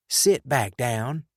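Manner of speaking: a slow, gentle command; kind order. A narrator's reading. Tommy tells wounded Sean to sit, kindly and slowly. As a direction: tell him firmly but kindly. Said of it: "Tommy ordered in a kind tone".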